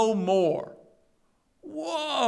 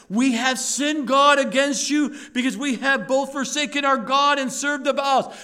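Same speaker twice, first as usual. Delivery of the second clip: "We have sinned" cried out louder, pleading; earnest confession; 2 semitones higher, 4 dB louder than usual. Shown as a demonstration. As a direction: play it like a broken confession. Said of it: "it sounds like they're confessing".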